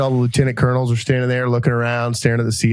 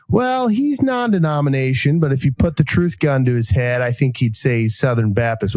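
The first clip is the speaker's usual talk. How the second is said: Charleston aristocrat drawl; 2 semitones higher than usual. Retold or imitated. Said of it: "sound like a Charleston aristocrat".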